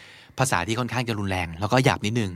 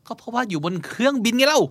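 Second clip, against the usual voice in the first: exasperated; 10 semitones higher than usual. Retold or imitated. Exasperated excuse in a spat.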